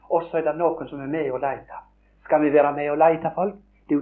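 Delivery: ordinary delivery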